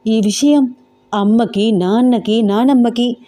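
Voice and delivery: put-on anxious young man fretting under his breath; Venkat's worried thoughts. Venkat alone, stunned by the pregnancy news, worried monologue. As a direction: voice him panicking in his own head.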